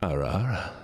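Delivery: low, half-whispered character catchphrase; attempted character voice. Streamer attempting a requested catchphrase for Pinky, hushed put-on voice. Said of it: "I can't do it in this voice".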